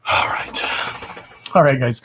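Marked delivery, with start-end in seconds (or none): 0.1-0.6 whisper. Real, not acted. Unvoiced whisper.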